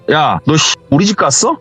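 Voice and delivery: high-pitched, acted annoyance on the phone; irritated. Friend answers the phone, irritated about a home visit. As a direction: play a friend snapping in irritation. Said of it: "짜증난 목소리를 잘 받더래요".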